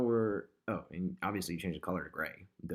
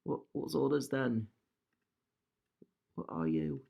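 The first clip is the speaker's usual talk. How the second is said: a bad, hammed-up British bobby accent, higher; terrible British accent; 4 semitones higher than usual. Designer teasing an overlapping image in a bad British accent. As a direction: play a comic British policeman questioning the picture. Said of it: "I do a terrible British voice".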